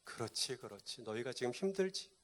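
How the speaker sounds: softly voiced understanding God. God understanding his people's hardship, soft sympathy. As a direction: lightly act out gentle sympathy. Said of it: "그걸 다 이해하신다는 거예요".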